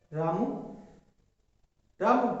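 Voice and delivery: Ramu said softly and short, barely calling. Shown as a demonstration. Teacher shows a quiet call that Ramu misses. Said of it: "हमने धीरे से उससे कहा".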